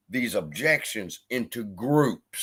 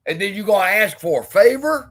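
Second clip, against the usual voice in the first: indignant; 7 semitones higher, 6 dB louder than usual. Real, not acted. Ranting at the streamer.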